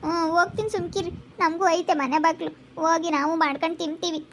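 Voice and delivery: quietly hurt, holding back tears; tearful. Acted. Hurt relative leaving, tearful. (ನೋವಿನಿಂದ ಮೆಲ್ಲಗೆ)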